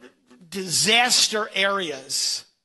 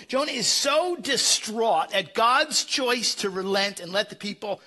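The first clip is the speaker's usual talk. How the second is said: ordinary talk, nothing marked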